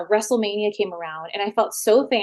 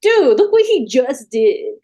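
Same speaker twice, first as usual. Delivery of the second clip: louder, higher, slowed indignant outburst; throwing it back at him in disbelief; exasperated retort; 5 semitones higher, 7 dB louder, slower than usual. Retold or imitated. Exasperated retort to Johnny Ace.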